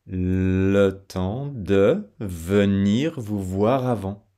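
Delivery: slow whisper, syllables linked; slow whispered drill; whispered demo. Shown as a demonstration. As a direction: whisper it slowly to show the linking. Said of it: "enchaînement consonantique".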